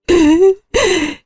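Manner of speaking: high-pitched grief-stricken wail; a hammed-up howl of grief; wailing sob. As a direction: wail out like a distraught mother-in-law. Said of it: "그게 시모의 울부짖음이라는 걸".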